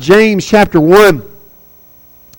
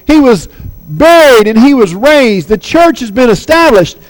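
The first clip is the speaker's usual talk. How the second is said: higher-pitched, urgent good-news telling; eager proclaiming; 4 semitones higher than usual. Retold or imitated. Preacher voicing Paul's co-workers teaching her, eagerly proclaiming. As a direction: announce it as thrilling news.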